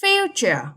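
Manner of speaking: Future, FU pitched high, then falling; first-syllable stress. Shown as a demonstration. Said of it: "Straight on the first syllable".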